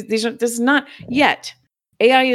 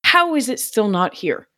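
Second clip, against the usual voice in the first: raised, higher entitled complaint; mock outraged customer rant; mock indignant rant; 6 semitones higher than usual. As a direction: whine like a fed-up customer. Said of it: "I've probably been like".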